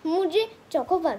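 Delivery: loud protest. Real, not acted. Daughter turning down the ice cream at home, protesting loudly. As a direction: refuse the offer at full voice.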